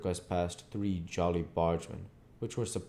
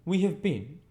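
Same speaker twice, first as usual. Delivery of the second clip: 1 exalted; 12 semitones higher, 5 dB louder than usual. A narrator's reading. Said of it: "exalted with his late performance".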